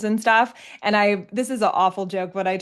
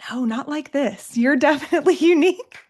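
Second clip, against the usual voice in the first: deadpan; 6 semitones higher, 3 dB louder than usual. Retold or imitated. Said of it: "he deadpan looked at me".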